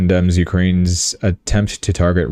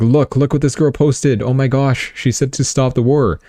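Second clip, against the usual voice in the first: excited soldiers; 6 semitones higher than usual. Retold or imitated. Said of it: "They're like".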